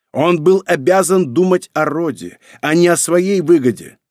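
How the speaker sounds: angry insistence. A narrator's reading. Emperor arguing angrily with son.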